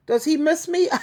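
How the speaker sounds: laughing. Real, not acted. Laughing at ex missing her.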